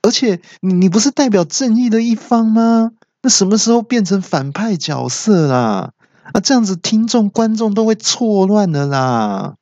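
high-pitched outraged protest; indignant shout. Acted. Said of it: "突然有人大喊".

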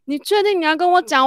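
high, loud disbelieving question; retold high incredulous question. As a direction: ask if he really must tell her this. Reacting to scary news.

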